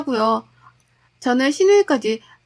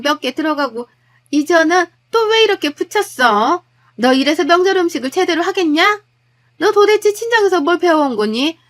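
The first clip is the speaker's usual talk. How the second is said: acted nagging mother-in-law, a bit raised and higher; scolding mother-in-law; 4 semitones higher, 4 dB louder than usual. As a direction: scold the daughter-in-law over every dish. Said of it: "하나하나 타박을 하시더라고요". (며느리를 타박하는 시어머니, 조금 높인 목소리)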